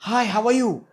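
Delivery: very high-pitched greeting. Shown as a demonstration. Coach showing pitch difference, high-pitched. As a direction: say hello way up high. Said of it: "Tone was the same".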